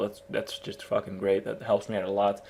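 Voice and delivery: a little tipsy and giggly. Real, not acted. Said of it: "I'm a little tipsy right here".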